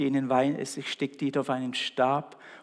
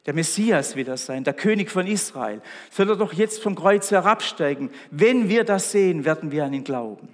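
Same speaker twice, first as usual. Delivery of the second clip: mocking; 4 dB louder than usual. Priests challenge Jesus to come down, mocking. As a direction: taunt that builds louder, then drops off. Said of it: "sagten sie spöttisch".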